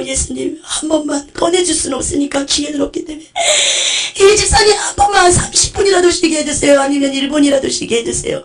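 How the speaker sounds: tearful prayer. Real, not acted. Preacher begs Jesus in tears.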